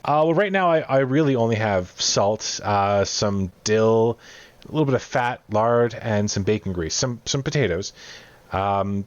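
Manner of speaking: lightly voiced, eager cook. Cook asks adventurers for spices or meat, mildly eager.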